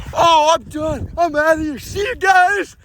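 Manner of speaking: high, loud frightened shouts; panicked fleeing. Acted. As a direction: bail out in panic. Fleeing the dinosaur.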